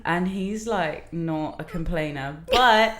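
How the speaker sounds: unhurried British accent. Shown as a demonstration. Telling the host about a British friend, British accent. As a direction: keep the British accent going, hesitantly. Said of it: "I can speak in it".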